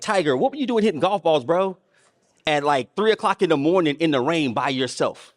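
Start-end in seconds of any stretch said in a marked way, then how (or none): none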